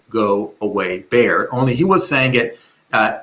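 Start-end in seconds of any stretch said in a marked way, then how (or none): 0.1-1.5 low, steady, calm command; demonstrating a calm, low-pitched warning. Shown as a demonstration. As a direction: calmly send it away, pitched low. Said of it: "in a low kind of calm voice".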